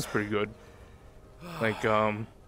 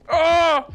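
pained yelp; 6 dB louder than usual. Real, not acted. Hit in game, cries out.

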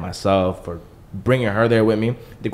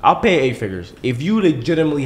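eager offer; 7 semitones higher, 5 dB louder than usual. Real, not acted. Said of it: "I'll pay a lot of money".

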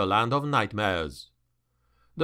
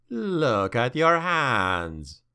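slow demon voice; much slower than usual. Acted. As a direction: draw it out like an ancient evil. Demon speaks to Malus.

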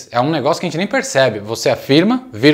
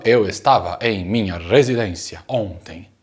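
stiffly over-correct; 6 semitones lower, 4 dB quieter than usual. Shown as a demonstration. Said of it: "Eu não falo".

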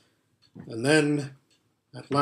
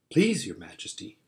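pleading fox; 6 semitones lower, 4 dB quieter than usual. A narrator's reading.

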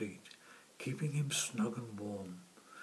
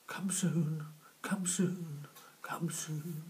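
higher whispered mutter; 7 semitones higher, slower than usual. Acted. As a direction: mutter it to yourself under the wind. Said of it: "The puffin sits and mutters".

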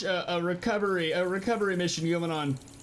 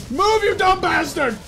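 high, loud, slow furious yell; angry shout; 11 semitones higher, 9 dB louder than usual. Real, not acted. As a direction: scream at it to move. Stuck on a tree.

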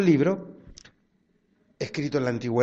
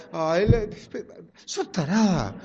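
loud exasperated scolding, laughing through it; mock scolding; 6 semitones higher, 13 dB louder than usual. Wife scolds husband for spilling the wine, exasperated.

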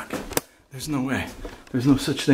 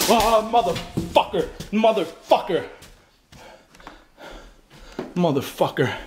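startled curse; 9 semitones higher than usual. Real, not acted. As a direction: swear in sudden fright. Startled by moving object.

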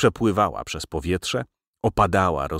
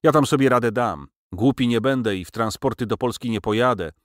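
dismissive; 5 semitones higher than usual. Acted. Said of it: "dodał z lekceważeniem".

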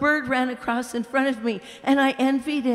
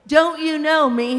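loud, higher call across the grass; shouted greeting; 5 semitones higher, 5 dB louder than usual. A narrator's reading. Bright spirit shouting to the ghost, loud and glad. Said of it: "he shouted to the ghost".

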